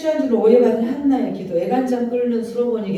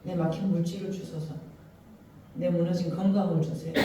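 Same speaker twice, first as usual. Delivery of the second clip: soft, low private prayer; quiet inner prayer; 3 semitones lower, 9 dB quieter than usual. Shown as a demonstration. Congregation praying silently to the Lord, soft. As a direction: murmur the request inwardly. Praying inwardly, voiced example.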